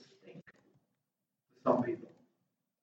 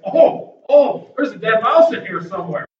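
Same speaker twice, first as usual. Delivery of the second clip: appalled discovery of a stink; mock disgust; 3 dB louder than usual. Preacher imitating churchgoers smelling a dead mouse, mock disgust. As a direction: exclaim at a bad smell.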